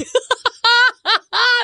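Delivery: loud, high laugh; burst of laughter. Real, not acted. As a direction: crack up at the memory. Laughing at own story.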